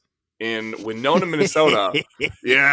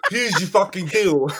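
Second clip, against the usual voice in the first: laughing, higher put-on British accent; mock British accent; 6 semitones higher than usual. Teasing co-host in a laughing British accent. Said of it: "I'm gonna do the rest of the episode in this accent".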